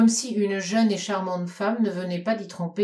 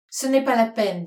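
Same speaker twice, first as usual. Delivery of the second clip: gracious smile; 4 semitones higher, 5 dB louder than usual. Acted. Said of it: "avec le plus gracieux sourire".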